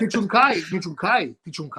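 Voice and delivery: "Tichunkai" said three times, falling and fading each time; Calabrese dialect word. Shown as a demonstration. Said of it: "What do you mean, Tichunkai?".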